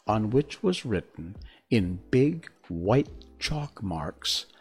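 reading a storybook aloud; gentle read-aloud narration; story narration. A narrator's reading.

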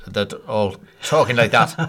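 Northern Irish accent, mouth half shut. Shown as a demonstration. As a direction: mumble through a half-closed mouth. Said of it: "the mouth is half shut".

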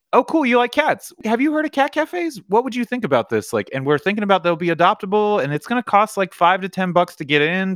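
high-pitched, eager retold pitch; chirpy sales pitch. Acts own pitch to strangers at events.

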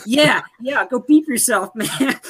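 mock tough guy laughing; laughing retort. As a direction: brush him off mid-laugh. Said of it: "I'm like".

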